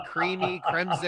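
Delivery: lightly hammed-up French accent; mock French accent. Reading a long flavor name to friends, mock French accent. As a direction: put on a silly, exaggerated French accent. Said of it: "most racist French impression I've ever heard".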